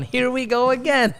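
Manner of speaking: a hint of a weary sigh voiced; teasing Austin. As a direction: tease like a fed-up friend. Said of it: "Austin going".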